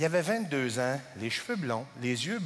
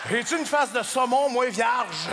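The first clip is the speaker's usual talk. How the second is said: indignant shout; 4 semitones higher, 4 dB louder than usual. Real, not acted.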